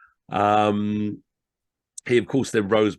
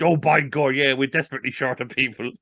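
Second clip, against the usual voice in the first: higher, louder Irish lilt; a jolly Irish official, bit raised; cheerful Irish reply, pitched up; Irish consulate voice; 5 semitones higher, 3 dB louder than usual. Retold or imitated. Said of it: "As only the Irish could do it".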